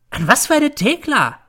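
very high, loud sneer; dismissive mother. A narrator's reading. Mother to son, scornful and shrill. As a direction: brush the name away.

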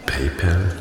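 PayPal as "pay-pell", with an open e; trying a pronunciation. Acted. Officer unsure how it is pronounced, PayPal as "pay-pell". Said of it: "wie man es richtig ausspricht".

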